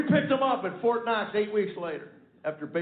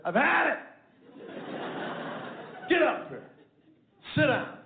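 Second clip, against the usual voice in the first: stern outburst; 6 semitones higher than usual. Retold or imitated. Father lays down the law.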